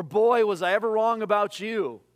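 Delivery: loud, hammed-up letdown; mock rebuke. Imagined Jesus telling off Peter, in mock exasperation.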